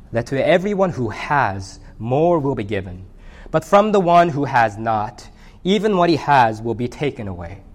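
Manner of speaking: measured, solemn Bible reading voice; scripture reading. Acted. Pastor reading scripture to the congregation, solemn and measured. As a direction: read the parable aloud to the congregation with gravity. Pastor reads Luke parable aloud.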